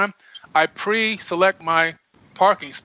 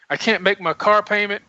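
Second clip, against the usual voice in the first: mock pleading, raised pitch; begging, pleading; 4 semitones higher than usual. Someone praying over money troubles, mildly mock pleading. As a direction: plead a hardship case, lightly acted. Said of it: "if you're begging and pleading".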